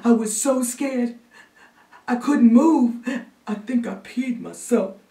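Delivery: put-on high, gasping frightened child; trembling kid reliving a fright; shaking, scared boy. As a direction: catch your breath between phrases, building in panic. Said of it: "who was shaking like new jello".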